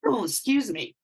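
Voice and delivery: throat irritated, recovering; sputtering after a bug; just swallowed a bug. Real, not acted. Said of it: "I think I swallowed a bug".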